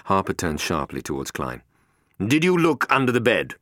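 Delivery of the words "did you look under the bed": louder, higher pointed question; suspicious boss. A narrator's reading. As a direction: lean on you. Harper turns on Klein.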